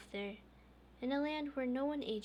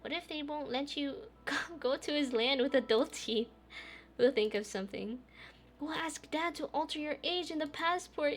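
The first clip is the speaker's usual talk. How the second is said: put-on higher curious child voice; lightly voiced little girl; 5 semitones higher, 5 dB louder than usual. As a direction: ask like an innocent little girl. Little sister Oya speaks.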